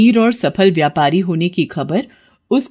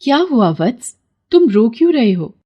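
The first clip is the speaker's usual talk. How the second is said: divine voice, higher and gentle; kindly goddess; 3 semitones higher than usual. Acted. Pond goddess asks Vikram why he weeps, kindly. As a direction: soothe a weeping mortal.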